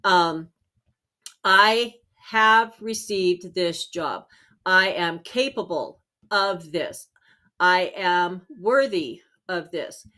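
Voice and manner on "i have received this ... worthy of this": slow, deliberate affirmations; calm certainty, word by word; confident affirmation. Shown as a demonstration. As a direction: state each line slowly as already true. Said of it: "you wanna talk as if you have already received".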